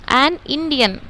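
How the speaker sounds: a slow, joined an Indian; slow example. Shown as a demonstration. Teacher showing students the example, slow and joined. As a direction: say अम, एन इंडियन slowly as one phrase. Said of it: "देखो मैं आपको".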